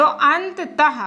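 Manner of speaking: अंततः drawn out slowly, each syllable clear; slow careful pronunciation. Shown as a demonstration. Teacher models अंततः slowly for class. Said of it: "तो एक उच्चारण आ रहा".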